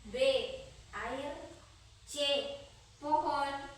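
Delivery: dictating. Acted. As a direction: read it out for the class to write. Reads quiz question aloud.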